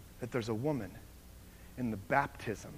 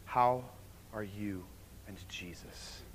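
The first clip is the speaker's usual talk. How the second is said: whispered, much softer; whispered question; 3 semitones lower, 4 dB quieter, slower than usual. Acted. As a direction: breathe the name like a secret. Quiet intimate sermon close.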